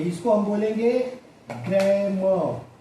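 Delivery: ग्रामर said as gremo, no r sound; teacher demonstrating ग्रामर without r; British grammar with silent r. Shown as a demonstration. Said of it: "आप देखिए".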